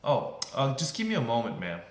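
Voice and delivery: mildly high-and-mighty clerk; lightly put-on self-important brush-off. Clerk stalling a demanding customer, high and mighty. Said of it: "become all high and mighty".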